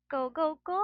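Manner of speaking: high, loud excited chant; Rufa Mae catchphrase. Retold or imitated. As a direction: do her famous line. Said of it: "famous line niya".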